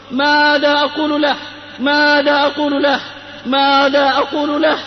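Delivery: retold desperate cry. Dying friend crying out to his rescuer, restrained mock scream. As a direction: imitate a dying man crying out, without full shouting. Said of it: "يصرخ بأعلى صوته".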